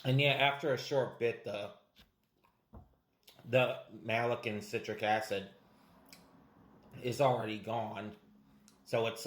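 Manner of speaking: talking around hard candy; candy rolling in mouth; sucking hard candy. Real, not acted. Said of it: "You're still gonna have to suck it down".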